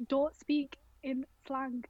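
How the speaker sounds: put-on slow Rochdale-accented "Don't" as mum's order; a slow, light Rochdale "Don't". Quoting her English-teacher mum in a Rochdale accent. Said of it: "You did the Rochdale don't".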